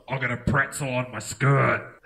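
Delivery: Melbourne hipster. Retold or imitated. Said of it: "'Cause here we just got".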